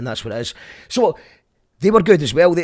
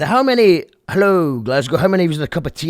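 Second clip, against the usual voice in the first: mock rapper; 5 semitones higher, 5 dB louder than usual. Imitating a rapper again, garbled.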